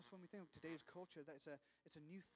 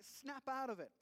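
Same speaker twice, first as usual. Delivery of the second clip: a loud, urgent call to wake him up; urgent outburst; 6 semitones higher, 8 dB louder than usual. Retold or imitated. Reader urges the prince to stop, loud and urgent. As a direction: shout it at the page. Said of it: "and I'm like".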